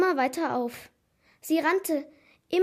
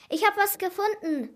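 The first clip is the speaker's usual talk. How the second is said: higher-pitched, proud announcement; proud call; 6 semitones higher than usual. A narrator's reading. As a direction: call out your find proudly. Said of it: "rief Noah stolz".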